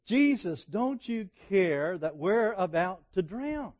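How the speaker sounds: high, loud, slowed plea of terrified men; panicked plea. Retold or imitated. Disciples waking Jesus in the storm, panicked and loud. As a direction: beg him to wake up and care.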